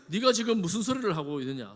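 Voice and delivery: heated, acted scolding; agitated rebuke. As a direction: snap back as an outraged king. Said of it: "그 자리에서 흥분하여".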